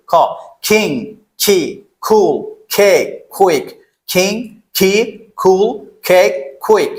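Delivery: "King, key, cool" one by one, k puffed like খ; aspirated K drill. Shown as a demonstration. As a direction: model "কেক, কুইক" with a breathy release on each k. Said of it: "এটার উচ্চারণ করবো খ এর মতো".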